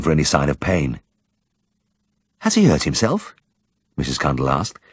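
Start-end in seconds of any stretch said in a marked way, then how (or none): 2.4-3.4 high, gentle village woman; shy woman's voice. Acted. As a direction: lift the voice for the shy wife. Mrs Cundall voiced.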